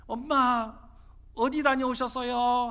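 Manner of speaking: a touch of innocent delight; cheerful child. Retold or imitated. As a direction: call to mom like a happy little son, lightly acted. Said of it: "해맑게 웃으면서 엄마를 부르더라는".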